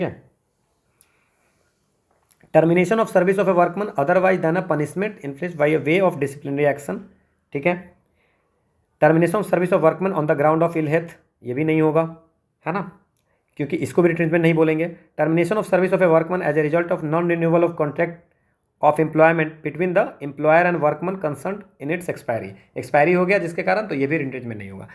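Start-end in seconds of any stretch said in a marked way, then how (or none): 2.5-7.0 slow, careful reading of the exam question. Acted. Reads answer option aloud. 9.0-11.1 slow, careful reading of the exam question. Acted. Reads answer option aloud. 15.2-22.5 slow, careful reading of the exam question. Acted. Reads answer option aloud.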